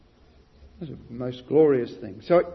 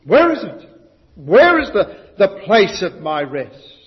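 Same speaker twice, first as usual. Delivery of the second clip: puzzled searching; 5 semitones higher, 11 dB louder than usual. Retold or imitated. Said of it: "As though I can't quite see it".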